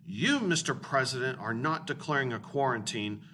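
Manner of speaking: lightly put-on, forceful Russian accent; masculine Russian voice. Teacher reads Khrushchev's letter to the class, mock masculine Russian voice. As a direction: read it like a manly Russian premier, lightly hammed-up. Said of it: "read it in a really masculine vo-, Russian voice".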